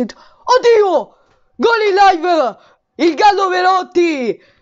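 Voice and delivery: high excited goal shout; breathless italian goal commentary. Real, not acted. Live goal reaction.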